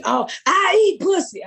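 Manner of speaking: high, bright heckling shout from the crowd; heckling friend. Retold or imitated. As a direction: tease her like a heckler. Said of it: "heckle me".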